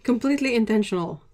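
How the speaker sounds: sarcastic. Real, not acted. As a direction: insist it was planned, tongue in cheek. Covers up an accident.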